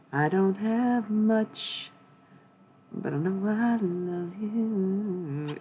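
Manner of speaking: slow, tender quoted line, lightly voiced; quoting Scrubs. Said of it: "from Scrubs".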